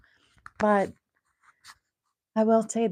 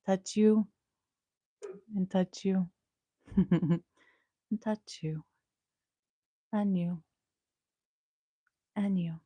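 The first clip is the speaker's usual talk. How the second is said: playful air kisses. Real, not acted. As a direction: toss little kisses into the camera. Blowing kisses to viewers.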